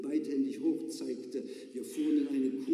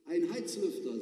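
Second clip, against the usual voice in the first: like a millionaire; 5 semitones higher than usual. Acted. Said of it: "wie ein Millionär".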